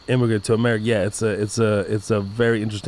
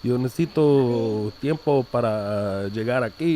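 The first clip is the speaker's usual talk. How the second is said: casual Mexican-style Spanish; Spanish with accent; slower than usual. Shown as a demonstration. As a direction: become a native Spanish speaker, accent and all. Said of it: "I just immediately become".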